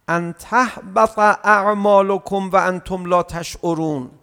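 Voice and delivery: slow chanted verse, fading at the end; Quran recitation. Acted. Preacher reciting the Quran verse to the congregation, chanted.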